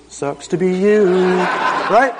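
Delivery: tossed-off jab with a laugh; cocky quip ending in a laugh; laughing mock dismissal. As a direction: laugh it off at her. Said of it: "I was just like".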